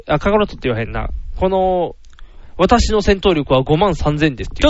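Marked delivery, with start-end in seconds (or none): 2.6-4.5 slow, lowered, refined villain voice; フリーザ. Retold or imitated. Villain announcing his battle power, lightly mimicked refined menace. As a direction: lightly mimic a genteel cartoon villain, unhurried. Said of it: "お姉系みたいな声の".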